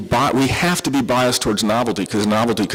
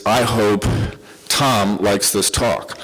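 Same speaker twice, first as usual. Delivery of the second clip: slow demo example; 2 semitones lower, slower than usual. Shown as a demonstration. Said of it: "it sort of goes like this".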